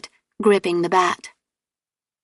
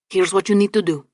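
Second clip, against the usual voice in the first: put-on light Hispanic accent; a hint of Hispanic accent. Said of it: "He had a thick Hispanic accent".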